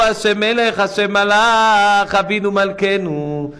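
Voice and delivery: drawn-out pleading shout; crying out to God. Retold or imitated. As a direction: call out like a Yom Kippur congregation. Congregation crying out on Yom Kippur.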